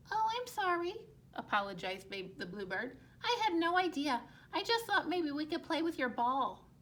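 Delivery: blue bird apologizing to the parents. Acted. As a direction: apologize lightly as the little bird.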